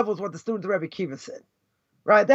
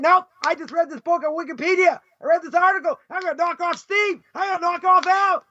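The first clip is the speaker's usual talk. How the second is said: Stephen Hawking mock; 6 semitones higher than usual. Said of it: "Stephen Hawking said".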